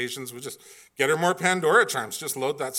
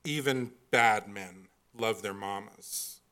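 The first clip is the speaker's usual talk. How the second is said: movie gunman; 4 semitones lower, slower than usual. Retold or imitated. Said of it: "He stands over him and says".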